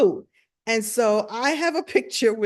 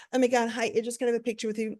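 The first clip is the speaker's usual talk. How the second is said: gushing fan; 3 semitones higher, much faster than usual. Retold or imitated. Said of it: "everybody else is like".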